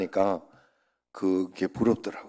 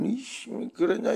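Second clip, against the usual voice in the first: mock irritated snap, pitched higher; retold angry retort; 13 semitones higher than usual. Pastor retelling his quarrel, mock angry retort. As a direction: replay your own annoyed comeback. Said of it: "이래가면서".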